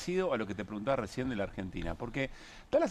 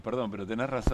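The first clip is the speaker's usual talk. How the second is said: nervous laugh. Real, not acted. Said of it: "Me río de los nervios".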